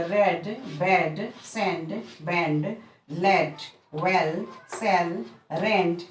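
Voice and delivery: रेड, बेड, वेल read quickly in a row with a short e; short e demo words. Shown as a demonstration. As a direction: run through the short e words again as a list. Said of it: "ए का उच्चारण करते हुए".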